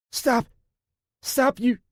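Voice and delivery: high, loud desperate cry; shouting stop. Acted. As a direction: yell at them to stop. Captive shouting at captors.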